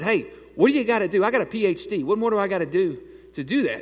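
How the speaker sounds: retold eager pitch to a cop, excited. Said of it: "I'm all excited".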